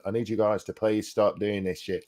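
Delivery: badly faked Aussie accent, softly pleading; a clumsy attempt at an Aussie moderator; the speaker's accent. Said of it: "I'm Aussie there".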